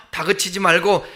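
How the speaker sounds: ordinary delivery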